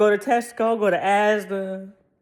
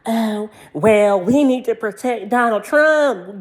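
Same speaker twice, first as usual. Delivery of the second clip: mocking conservatives; 3 semitones higher, 3 dB louder than usual. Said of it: "trying to sit up here and say".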